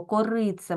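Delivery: «корице» with a clear final е, not drifting to и. Shown as a demonstration. Teacher shows pupils it is said clearly, «корице» with distinct final е. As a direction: keep the last vowel of «корице» a clean е. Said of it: "Ось так він вимовляється чітко".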